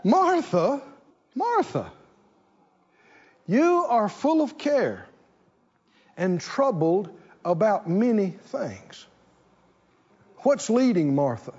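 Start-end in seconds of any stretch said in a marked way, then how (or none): 0.0-9.1 Jesus gently rebuking. Acted. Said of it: "Jesus answered her".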